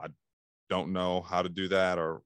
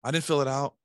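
sorry for ourselves; 6 semitones higher than usual. Acted. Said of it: "we feel sorry for ourselves".

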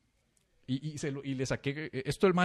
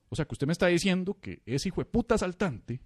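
mock rant; 5 semitones higher, 6 dB louder than usual. Barber ranting, high loud laugh.

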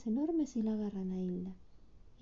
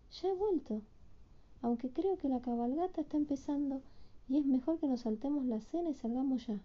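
put-on child Hilda voice.

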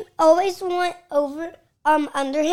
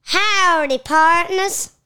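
a hint of a country accent; 3 semitones higher, 4 dB louder, slower than usual. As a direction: greet them like a little cowboy. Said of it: "Let me hear your country accent".

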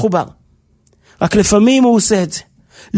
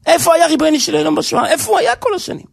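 urgent questioning; 4 semitones higher, faster than usual. Real, not acted. Preacher pressing the painful question.

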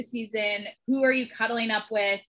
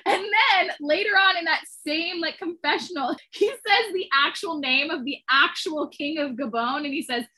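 higher voice bubbling with laughter; struggling not to crack up mid-story; laughing while talking; 6 semitones higher, 4 dB louder than usual. Real, not acted. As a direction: push the story out through giggles. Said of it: "I can't say it without laughing".

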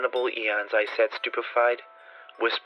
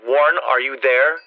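calling down; 2 semitones higher, 6 dB louder than usual. A narrator's reading. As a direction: call down into the tomb. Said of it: "Again I called down".

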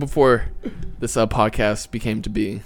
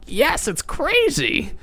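put-on high, stretched-out old-man holler; slow, high-pitched mock yell; mock shouting; much slower than usual. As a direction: imitate a hard-of-hearing man yelling back. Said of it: "like, shouting it".

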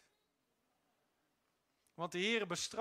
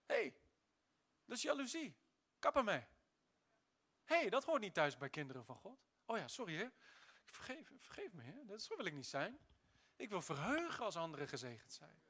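Holy Spirit's rebuke. Retold or imitated. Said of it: "Door de Heilige Geest in mijn hart".

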